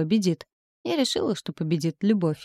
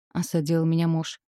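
ordinary delivery

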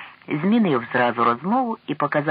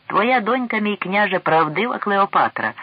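high, loud burst of admiration; impulsive exclamation; 7 semitones higher, 4 dB louder than usual. A narrator's reading. King calls out to the old prince about his daughter, impulsively. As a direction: exclaim it on impulse, pitch lifted. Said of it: "покрикнув поривно король до старого Потоцького".

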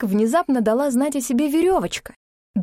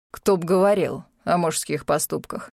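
dry, biting retort; sarcastic jab; 4 semitones lower than usual. Acted. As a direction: needle him with sarcasm. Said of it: "съязвил тут же Мор".

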